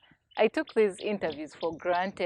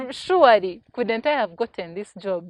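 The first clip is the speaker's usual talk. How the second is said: dismayed disbelief; 2 semitones higher, 8 dB louder than usual. Retold or imitated. Retold dismay at missed job.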